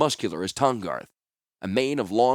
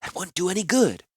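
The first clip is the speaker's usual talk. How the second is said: gentle reasoning; 9 semitones higher than usual. Acted. Healer restraining angry companion.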